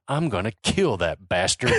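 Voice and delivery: put-on low menacing Southern accent thug. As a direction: growl the threat like a Southern goon. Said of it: "doesn't say in a Southern accent".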